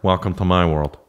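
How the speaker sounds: lightly imitated kid cousin; a hint of the cousin's funny kid voice; mock-serious catchphrase, as the cousin said it. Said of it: "every time he'd be like".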